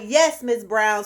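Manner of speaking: slow, spaced-out retold answer; patient confirmation. Receptionist reassuring a doubting patient about the chart, slowly. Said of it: "are you looking at the right chart?".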